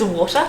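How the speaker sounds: "water" with a T and an open "ah" ending; British pronunciation. Shown as a demonstration. Using a control word for three accents, "water" the British way. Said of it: "So Brits will say".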